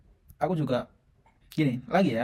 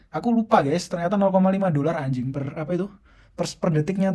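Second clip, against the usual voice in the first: shocked; 3 semitones higher, 5 dB louder than usual. Real, not acted. Shock at the bill.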